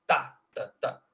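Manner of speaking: first "tá" stressed, two lighter ones after; strong-weak-weak. Shown as a demonstration. Lecturer demonstrating a dactyl, strong "tá" then two weak. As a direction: beat out "tá, tá, tá" as a dactyl. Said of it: "uma sílaba forte seguida de duas sílabas".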